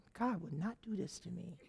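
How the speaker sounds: inner thought. Retold or imitated. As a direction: think it aloud softly with a laugh. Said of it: "I'm thinking".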